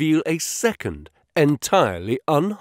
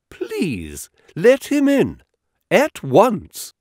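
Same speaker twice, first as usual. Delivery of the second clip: excited; 9 semitones higher, slower than usual. A narrator's reading. Holmes eager to meet a real pirate, excited. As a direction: burst out, thrilled to meet a pirate. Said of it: "his eyes sparkling with excitement".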